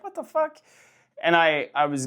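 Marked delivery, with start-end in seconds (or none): 0.0-0.6 a high, startled what the fuck; shocked outburst. Retold or imitated. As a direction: jolt up in pitch as if you can't believe the message. Shocked reaction to tirade.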